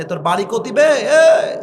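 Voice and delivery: a Rajshahi villager asking where you're from; Rajshahi dialect. Retold or imitated. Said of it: "রাজশাহীতে এভাবে".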